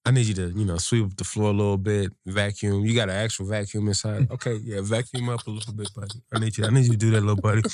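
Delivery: gentle coaxing. Pretend. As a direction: sweet-talk a little helper. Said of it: "You gotta be a little more temperamental".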